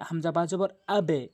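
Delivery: আবে with the ব bounced downward; qalqala downward bounce. Shown as a demonstration. Teacher to students, downward qalqala on আবে. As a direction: drop আবে with a short downward jolt on ব. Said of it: "নিচের দিকে sound হবে।".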